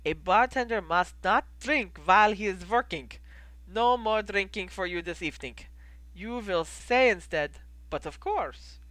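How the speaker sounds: lightly voiced innkeeper with a foreign accent; measured, accented innkeeper explaining a recipe; a hint of the foreign-accented barkeep. Plays innkeeper Goldie.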